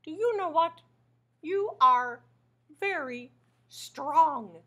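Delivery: a touch of Grover in awe. Acted. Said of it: "says Grover".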